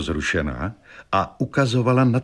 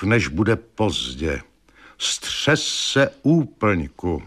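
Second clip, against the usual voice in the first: very slow, portentous pronouncement; ominous prophecy; slower than usual. A narrator's reading. Fortune-teller's letter warning of danger and death, slow and ominous. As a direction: draw each warning out, fatefully slow.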